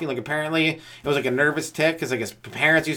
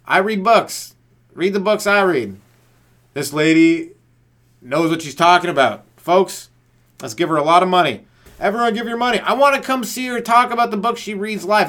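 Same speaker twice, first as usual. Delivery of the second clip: mock fan hype; 5 semitones higher, 4 dB louder than usual. Mocking Oprah fans' enthusiasm.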